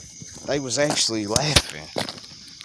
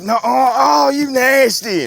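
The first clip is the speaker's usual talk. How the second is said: mock disgust; 11 semitones higher, 7 dB louder, slower than usual. Guy reacts to the bathroom rumor.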